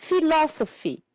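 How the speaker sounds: philosophy with LOS high, then falling; stress on second syllable. Shown as a demonstration. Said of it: "two syllables before".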